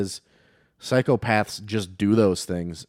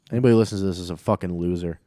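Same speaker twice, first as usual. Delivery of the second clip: mock hostile rant; 3 dB louder than usual. Joking roast of listeners.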